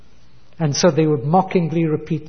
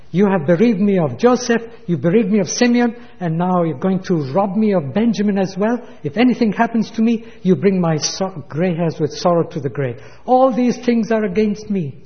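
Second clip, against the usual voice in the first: anguished protest; 4 semitones higher than usual. Acted. Jacob protests to his sons.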